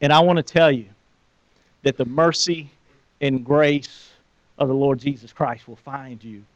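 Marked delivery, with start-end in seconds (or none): 1.8-6.4 soft and low, deeply earnest; a preacher's quiet assurance of mercy; hushed promise. Real, not acted. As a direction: drop to a near-murmur to reassure. Sermon climax, hushed promise.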